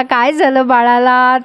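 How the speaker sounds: slow, mock-tender ad line; hint of a TV ad mother; imitating an ad. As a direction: quote the old commercial in a lightly sung-out way. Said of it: "ती जाहिरात आठवते का तुम्हाला".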